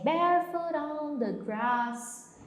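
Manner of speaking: slow, lightly British barefoot on the grass; a hint of British English, open a in grass; British accent. Shown as a demonstration. Teacher imitates the singer's British English. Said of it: "ele fala inglês britânico".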